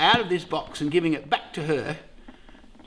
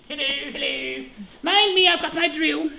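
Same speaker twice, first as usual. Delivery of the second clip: higher, chirpy put-on tradie swagger; mock tradesman voice; 9 semitones higher than usual. Husband imitating a tradesman walking onto site, hammed-up. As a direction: strut in like a proud tradesman with his drill. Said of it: "they don't talk like that".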